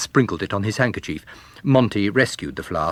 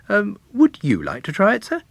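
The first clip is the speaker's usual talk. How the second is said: Monty; 12 semitones higher than usual. A narrator's reading. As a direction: offer it like an eager young man. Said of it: "said Monty".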